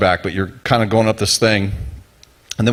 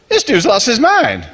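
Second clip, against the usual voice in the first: incredulous laugh; 12 semitones higher than usual. Retold or imitated. Climbers' thought at the steep drop.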